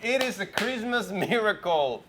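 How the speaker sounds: slow, laughing through the words. Acted. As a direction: savor it with a laugh. Joking about voice coming back.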